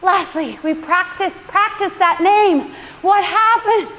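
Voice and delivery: put-on light Dutch-accented teasing, rising on "What happened"; mock the Dutch neighbour scolding you over a name; imitating Dutch neighbor. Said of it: "First thing he says after".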